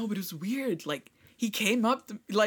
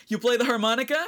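mildly raised, awkward opener; awkward stranger's question; 4 semitones higher than usual. Retold or imitated. Stranger approaching a harmonica player, awkwardly. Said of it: "exact same awkward silence".

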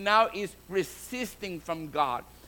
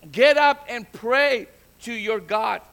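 raised, commanding preacher's retelling; retold shout; 5 dB louder than usual. Captain to sleeping Jonah in the storm, retold mild shout. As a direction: call it out firmly, a mild shout. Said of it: "He shouted".

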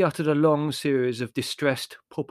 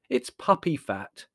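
slow, airy verdict on PUPPY FAT; unbothered, slightly drawn-out dismissal; 3 semitones higher, slower than usual. Acted. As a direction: pronounce "puppy fat" slowly and airily. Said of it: "said Larry airily".

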